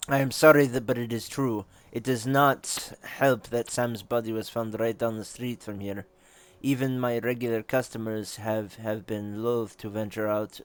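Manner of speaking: put-on measured, approximate Russian accent; a loosely done Russian accent. Game character explaining her stake in the murders, Russian accent. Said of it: "want to give her a Russian accent".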